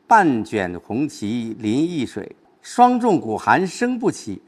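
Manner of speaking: slow, stretched verse; verse recitation. Shown as a demonstration. Teacher quoting the couplet to a student, slow recitation. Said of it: "前一句".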